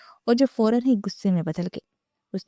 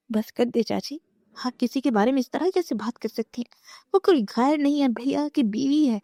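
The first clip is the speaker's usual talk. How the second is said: outraged shout; 6 semitones higher than usual. Acted. Sister defending her brother's wife against the aunt, shouting. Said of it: "دعا چیخ اٹھی".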